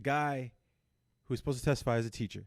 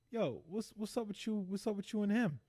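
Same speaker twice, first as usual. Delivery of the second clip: mock suspicion; 6 semitones higher than usual. Husband questioning wife about the teacher, mock suspicion. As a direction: act out a husband probing, high and hushed.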